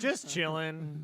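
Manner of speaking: stretched out, slow and lazy; slow laid-back drawl. Pretend. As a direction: drag it out lazily. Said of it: "repeated, relaxed drawl".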